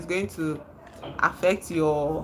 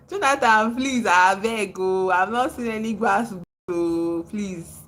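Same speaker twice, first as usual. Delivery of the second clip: louder, drawn-out begging; playful, exasperated begging; mock pleading; 2 semitones higher, 5 dB louder than usual. Real, not acted. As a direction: plead with him, half laughing.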